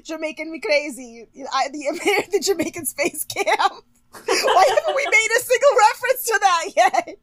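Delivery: high-pitched, talking through giggles; real laughing. Real, not acted. Co-host cracking up over Jamaican puns, high and giggling. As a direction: squeeze the words out through laughter.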